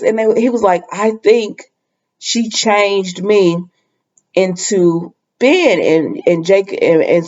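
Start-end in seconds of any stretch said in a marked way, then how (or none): 0.9-5.8 very slow, drawn-out retold realisation; halting, suspenseful quote; dawning realisation. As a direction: let each phrase land slowly. Acting out Jake's dawning realisation.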